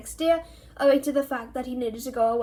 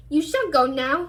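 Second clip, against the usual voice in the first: fierce; 2 semitones higher, 5 dB louder than usual. Acted. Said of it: "he said fiercely".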